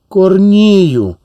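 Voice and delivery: loud, high call into silence; stronger call. Acted. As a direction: call out hard for someone gone. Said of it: "гукнула сильніше".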